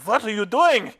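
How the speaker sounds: high, loud imitation of an outraged engineer; German engineer's outburst. German engineer confronts the trainee at the computer, mock outraged shout. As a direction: shout it in sudden mock alarm. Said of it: "German engineers, gonna be".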